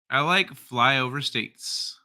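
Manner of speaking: put-on slow Valley girl read. Host reading a viewer's comment, slow mock Valley girl. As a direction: drawl it slightly like a Valley girl. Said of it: "read that like a Valley girl".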